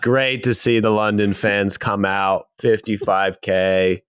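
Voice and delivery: badly faked London accent; Jamaican British accent. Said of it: "that accent really rounded into form".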